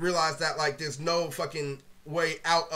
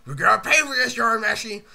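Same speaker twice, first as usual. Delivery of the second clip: annoyed complaint; 2 semitones higher, 6 dB louder than usual. Retold or imitated. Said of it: "I'm like".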